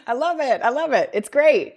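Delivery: high, laughing agreement. Real, not acted. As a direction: laugh through it.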